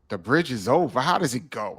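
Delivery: skeptical sing-song questioning; mock disbelief, retold; incredulous questioning. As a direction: question it as if the idea makes no sense. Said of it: "I'm talking to him like".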